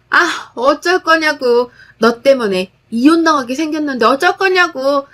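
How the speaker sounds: 따지듯 조금 높여 몰아붙이는 시누이; 미친 듯 달려들며 따져 묻기; 광기 어린 목소리. Acted. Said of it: "광기 어린 목소리로 말하더군요". (올케에게 달려들며 따지는 시누이, 광기 어린 목소리)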